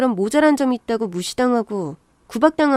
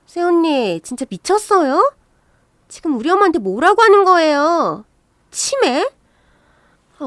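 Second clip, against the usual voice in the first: raised-pitch scolding with swooping questions; indignant quarrelling; 3 semitones higher than usual. Acted. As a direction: confront her in offended outrage. Sister-in-law attacks in acted quarrel.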